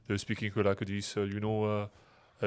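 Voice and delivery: slow-ending southwest France drawl; southwest French accent. Shown as a demonstration. Imitating rugbymen from the southwest, southwest French accent. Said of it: "that's from Southwest".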